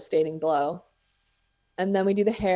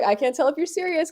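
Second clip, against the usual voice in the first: mock unsure; 9 semitones higher than usual. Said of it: "she's like".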